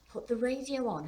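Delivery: high disbelieving question on "Put the radio on"; incredulous echo. A narrator's reading. Daughter echoes dad in disbelief.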